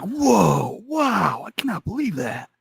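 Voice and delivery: hammed-up awestruck crowd; mock amazement. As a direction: gush like impressed onlookers. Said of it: "everyone was like".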